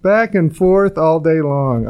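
slow mock-Liverpool lilt; a singer. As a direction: drag it out in a put-on Liverpool accent. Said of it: "talk like the singer".

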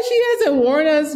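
mock despair. Retelling despair about a singer.

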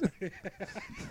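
a very high soft giggle. Real, not acted. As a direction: let a tiny high giggle slip out. Laughing at being on air.

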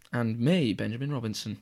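low, smooth radio-host sign-off. Pretend. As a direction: introduce yourself in your best radio voice. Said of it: "That was your best radio voice yet".

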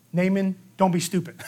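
chuckling through the line; half-laughing, teasing rebuke; amused mock scolding of Naaman.

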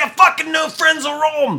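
high, loud fan outburst; excited retelling. Retold or imitated. Host retells answering her Australian friend, mock excited yell. Retold eager reply to friend.

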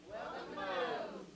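faint, slow, half-hearted mumble; weak response. Real, not acted. Congregation answering the pastor, weak and faint. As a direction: barely say it back. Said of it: "you're weak".

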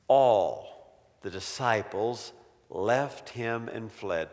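slow, trailing down to a hush; slow, dropping to almost nothing; slow and fading. Shown as a demonstration. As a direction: let the line sink away. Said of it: "and then notice".

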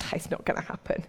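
hushed, voiceless retort under the breath; put out. Retold or imitated. Peter reacting to Jesus's prediction, put out. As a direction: imitate a miffed disciple, barely voiced. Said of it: "Peter is pretty put out by this".

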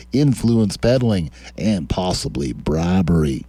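lightly put-on accent of a politician, in a measured lilt; James Comer accent. Host mockingly reads congressman's tweet aloud, in a lightly imitated accent. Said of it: "James Comer accent".

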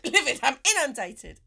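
hammed-up moan, high and loud; mock moaning. Comic mimics comics moaning about too much work, hammed-up moan. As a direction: complain as if swamped by your own success. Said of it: "you moan even more".

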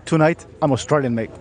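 light put-on Australian accent; half-hearted Aussie accent. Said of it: "put that full Australian accent on".

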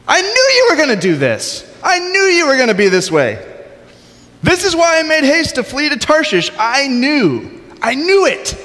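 high-pitched, hammed-up tantrum at God; acted indignant outburst, pitched very high; petulant rant. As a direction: rail at God like a sulking prophet, voice way up. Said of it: "the most epically petulant".

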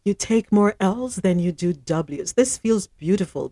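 hushed golf announcer voice; golf commentator. Acted. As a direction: read it like a golf broadcast. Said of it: "read this in my golf voice".

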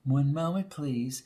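mock the operator's phrase, dropping away; mocking mimicry. Impatient reporter mocking the operator's stock phrase. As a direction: parrot her in a mocking tone. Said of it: "mimicked the hurried Brady".

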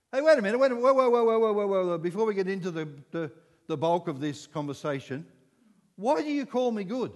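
loud, urgent hold-up; mock exclaim. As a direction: stop him short, loud and urgent. Jesus voiced stopping the ruler.

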